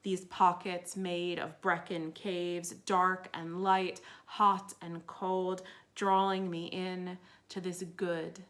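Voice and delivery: measured recital with weighted images and pauses; poem reading. Acted. Poet reads Keeping Warm, about Wales, measured recital. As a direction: give each item in the list its own space.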